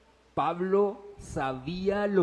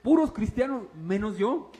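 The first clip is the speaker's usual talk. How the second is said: lightly raised sarcastic quip; mock complaint; 4 semitones higher, 3 dB louder than usual. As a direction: tease about all the Christians. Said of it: "yo les decía". (queja burlona, ligeramente más aguda)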